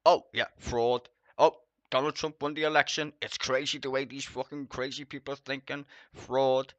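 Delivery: mock news-anchor indignation, pushed loud; mock Fox host outrage. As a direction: ham up a pundit crying fraud on air. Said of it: "they were saying".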